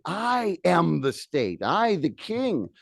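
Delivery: royal decree. Retold or imitated. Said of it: "he said".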